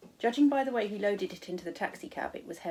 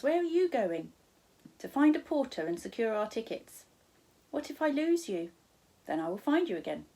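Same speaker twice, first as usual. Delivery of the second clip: put-on higher, worried child's pleas; girl begging Charles not to leave, higher; anxious pleading; 3 semitones higher, 3 dB louder than usual. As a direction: urge him to stay, nervous.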